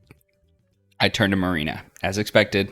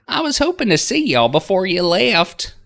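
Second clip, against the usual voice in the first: chirpy tour guide Linda; 10 dB louder than usual. Acted. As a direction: sing it out like a cheery Southern aunt.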